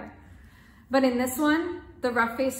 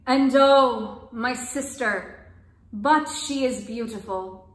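smiling kindly; 5 dB louder, much slower than usual. Acted. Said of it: "smiling kindly".

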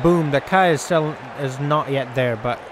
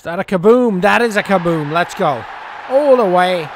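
excited celebration; 5 dB louder than usual. Real, not acted. Celebrating a big six.

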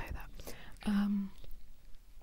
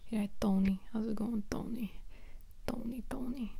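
New York accent; 2 semitones higher than usual. Shown as a demonstration. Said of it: "I was gonna do New York".

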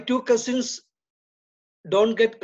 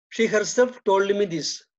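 She lifted and pushed a little louder; stress on the subject; 3 dB louder than usual. Shown as a demonstration. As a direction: hit She herself as the subject. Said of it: "There is a stress on the subject".

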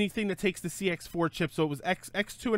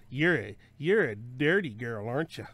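creepy flirty voice; 5 semitones lower than usual. Acted. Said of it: "That's creepy".

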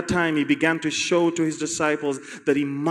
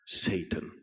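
low grave verdict; 12 semitones lower, 14 dB quieter than usual. Acted. Jesus names Satan.

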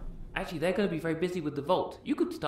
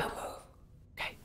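whispered order; 11 dB quieter than usual. Real, not acted. Hiding from the player.

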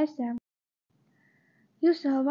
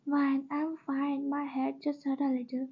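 softer, slow and gentle, brushing it off; light reassuring smile; 6 dB quieter than usual. Acted. Reassuring her friend at the hospital bedside, softly and slowly with a smile. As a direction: ease her worry with a small smile. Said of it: "with a light smile to reassure her".

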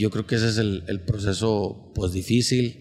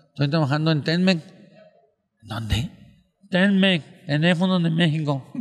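nasal mangled words, higher and louder; gangoso voice; 7 semitones higher, 5 dB louder than usual. Acted. Comedian acting the gangoso bragging about his job, higher and louder. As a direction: push it up and out through the nose like the gangoso. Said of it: "que era un gangoso".

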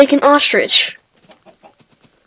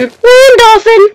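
slow, much higher and louder land dolphin; stretched high shout; 11 semitones higher, 9 dB louder, much slower than usual. Real, not acted. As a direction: drag out land dolphin in delight. Stretched repeat.

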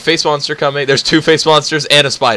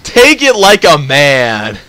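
taunting; 5 dB louder, much slower than usual. Real, not acted. Taunting slow shout.

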